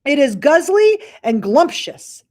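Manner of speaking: high, loud gleeful shout; shouting giant. Acted. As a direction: crow about eating people. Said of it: "shouted the blood, bo-, blood bottler".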